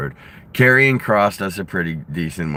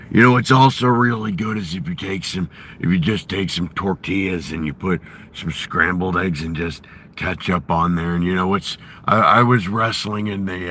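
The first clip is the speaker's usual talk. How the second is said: Jesse Ventura impression; 3 semitones lower than usual. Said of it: "I've been working on my Jesse Ventura".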